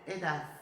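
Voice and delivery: tongue between the teeth to end EDAD; Madrid final d. Shown as a demonstration. Teacher showing how people in Madrid say edad, lisped final d. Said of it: "Coloca a língua entre os dentes".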